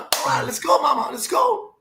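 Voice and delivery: high, loud cheer to get going; rally everyone into the car; excited shout. Retold or imitated. Guys call the mom into the team car, shouting.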